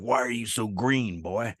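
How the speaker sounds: slow, drawn-out cop questioning, lightly voiced. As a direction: draw it out like a cop imitation. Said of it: "this cop pulls me over".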